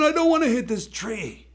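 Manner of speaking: high, loud mock panic; a kid's high-pitched hammed-up panic yell; panicked yell. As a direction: shout it out in full alarm. Tim's thought shouted out.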